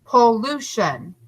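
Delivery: "Pollution" said a little slowly, breaks marked; slowed syllables. Shown as a demonstration. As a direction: say "Pollution" a bit slowly for the class. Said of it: "the break is between the L's".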